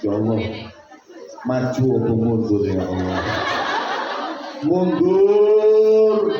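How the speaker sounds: half-laughing, dithering between choices; a comic inner dilemma, voiced with a chuckle; torn hesitant young man. Young man's comic dilemma prayer.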